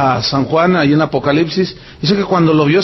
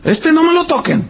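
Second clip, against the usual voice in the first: mock devotee; 9 semitones higher than usual. Mocking fan protecting idol.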